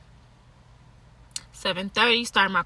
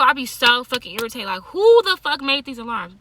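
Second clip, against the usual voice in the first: ordinary delivery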